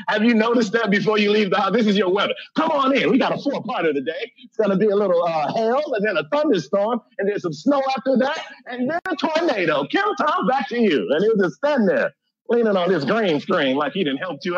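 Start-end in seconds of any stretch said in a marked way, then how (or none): 1.7-11.1 hammed-up upbeat weather report; mock TV weatherman. Comic mimicking a TV weatherman to the audience, cheery forecast voice. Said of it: "the weatherman don't even know".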